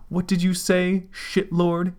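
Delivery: high loud angry yell. Acted. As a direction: yell it, offended. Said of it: "yelled the white one".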